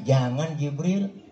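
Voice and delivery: slow, gentle no; gentle refusal. Acted. The Prophet calming Jibril, slow and gentle. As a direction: slowly hold Jibril back. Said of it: "Ini kalau bahasa kita".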